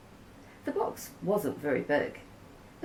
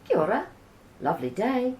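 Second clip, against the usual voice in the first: calling out; 9 semitones higher, 5 dB louder, faster than usual. Acted. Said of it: "to call out".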